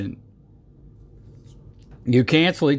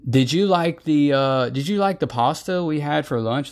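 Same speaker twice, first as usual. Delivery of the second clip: asking a question; 4 semitones higher than usual. Retold or imitated. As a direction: ask it like a polite coworker. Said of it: "somebody will ask you a question".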